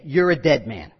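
low, fading mobster lines; softening gangster voice; Godfather mobster. Retold or imitated. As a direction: drop into a Mafia boss murmur. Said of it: "That's what he's saying".

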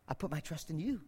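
hushed prayer. Acted. Preacher voicing David's quiet prayer to God, hushed. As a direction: breathe it like a private prayer.

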